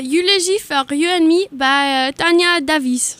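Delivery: mild French accent on the title and name; French accent, lightly. Shown as a demonstration. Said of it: "really good French accent".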